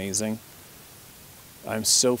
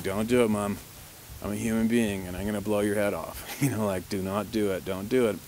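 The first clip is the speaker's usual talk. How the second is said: calm firm voice. Retold or imitated. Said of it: "I'm talking calm in this tone I'm talking right now".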